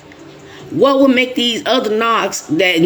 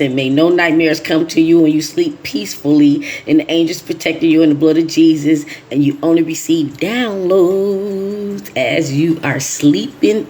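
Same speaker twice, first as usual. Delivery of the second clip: blessing prayer; 2 semitones lower than usual. Acted.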